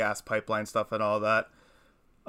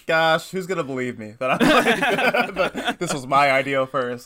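high, loud complaint breaking into laughter; exasperated but laughing; laughing mock dismay; 4 semitones higher, 6 dB louder than usual. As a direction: protest being scooped while cracking up. Mock dismay at being scooped.

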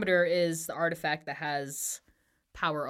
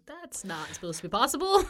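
higher, louder incredulous protest; mock disbelief; 7 semitones higher, 5 dB louder than usual. Retelling a character hearing impossible news, mock disbelief. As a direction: voice a baffled objection.

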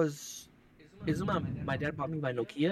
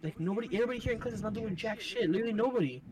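higher-pitched mock argument with mom; acted protesting son; 6 semitones higher than usual. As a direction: argue back like a kid making excuses. Acts out arguing with mom.

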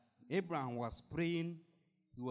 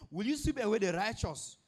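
pleading Abraham; 6 semitones higher, 5 dB louder than usual. Acted. Preacher voicing Abraham's plea.

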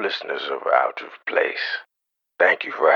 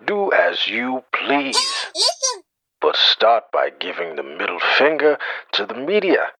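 villain rallying speech; 10 semitones higher than usual. Acted. Bane rallies podcast listeners to revolt, building grand speech. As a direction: rouse the city like a tyrant.

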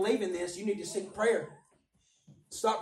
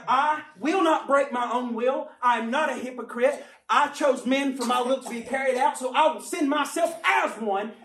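firm proclamation; 3 semitones higher, 3 dB louder than usual. Retold or imitated. God voiced resolving to come.

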